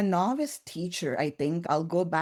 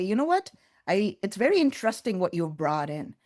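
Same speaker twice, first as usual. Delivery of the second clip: retold snide remark, pitch jumping up high; mock-sweet sarcasm from a dismissive manager; sarcastic; 3 semitones higher than usual. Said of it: "would make a very sarcastic comment".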